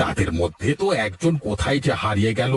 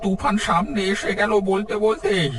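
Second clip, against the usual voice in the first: alarmed; 7 semitones higher than usual. Acted. Storm arrives suddenly.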